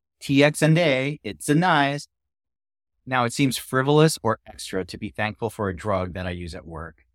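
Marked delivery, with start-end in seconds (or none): 0.2-2.1 very slow, exaggerated, over-the-top Kazakh accent. Show how Sal talks about a drug used during surgery, in a Borat voice. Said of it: "Sal likes to use a Borat voice".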